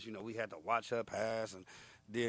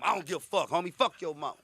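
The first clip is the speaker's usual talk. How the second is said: louder, raised-pitch taunt; mock defiance; 3 semitones higher, 5 dB louder than usual. Inmate baiting another into a fight, mock defiance. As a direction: throw it out as a hammed-up challenge. Acted prison quarrel.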